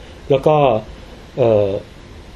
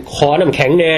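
southern Isan accent. Shown as a demonstration. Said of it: "จะใส่สำเนียงเป็น".

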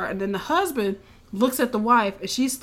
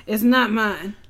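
put-on drunk voice. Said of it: "that's how I sound drunk".

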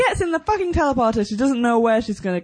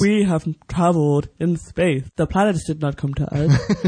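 put-on old man voice; 8 semitones lower than usual. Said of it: "I'm just talking in an old man voice".

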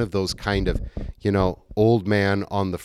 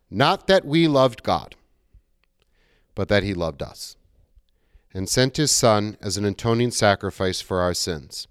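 scripture reading. Acted. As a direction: read it out to the congregation. Reads 1 John 4:7 aloud.

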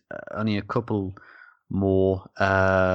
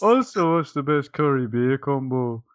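bad Scottish accent; 3 semitones higher than usual. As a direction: ham up a fake Scottish accent.

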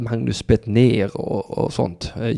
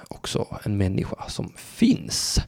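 mock reverent whisper; 6 dB quieter than usual. Whispered awe.

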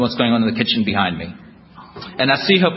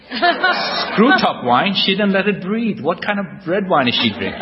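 snobbish critic; 6 semitones higher, slower than usual. Retold or imitated. Snobbish critique of wife's wine.

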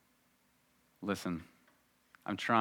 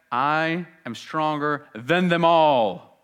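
boastful Peter; 4 semitones higher, 6 dB louder, much slower than usual. Acted. Peter boasting, beating his chest.

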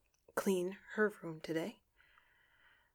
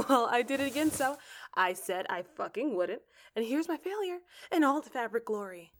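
ordinary talk

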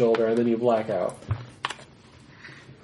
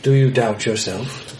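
gruff mountain man. Acted. Hermit questions the bard.

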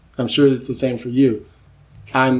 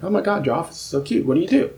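higher-pitched, quick admiring visitor; gushing visitor; 5 semitones higher, faster than usual. Retold or imitated. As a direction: lightly imitate an impressed drop-in guest.

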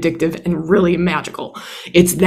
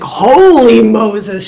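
mock freak-out; 6 semitones higher, 7 dB louder, much slower than usual. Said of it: "you suddenly freak out like".

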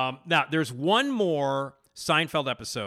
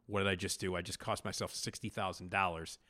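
softer, lower muttered regret; dismayed realization; 4 semitones lower, 8 dB quieter than usual. Retold or imitated. Larry David walking home, quietly regretting quitting. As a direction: quietly realize your mistake. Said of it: "and he's like".

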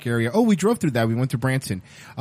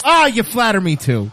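sarcastic; 6 semitones higher, 4 dB louder than usual. Pretend. Mock flattered reply.

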